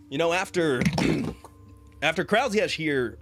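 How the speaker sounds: a jovial paladin talking to his son; paladin father. Acted. GM voices William the paladin.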